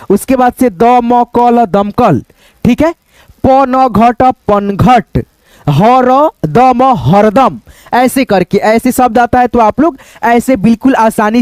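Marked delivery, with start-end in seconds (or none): 3.5-6.3 ट, पनघट spoken very slowly; teacher sounds out ट, पनघट; slow blending demo. Shown as a demonstration. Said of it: "रहमत ऐसे बोलेंगे". 6.5-7.6 द, म, हरदम spoken very slowly; teacher sounds out हरदम piece by piece; slow blending demo. Shown as a demonstration. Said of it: "रहमत ऐसे बोलेंगे".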